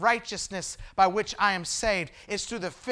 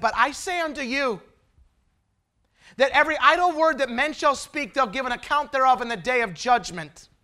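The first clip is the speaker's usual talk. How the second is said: scripture quoted with force; 4 semitones higher, 8 dB louder than usual. Retold or imitated. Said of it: "he said".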